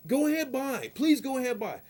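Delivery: mock polite. Mock polite yielding to drivers.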